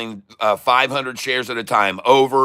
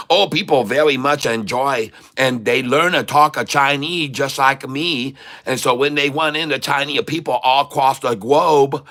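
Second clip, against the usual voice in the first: Catfish Chai. Pretend. Streamer slipping into his Catfish Chai character. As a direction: play the comic Chinese trader. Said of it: "some Chinese guy we call Catfish Chai".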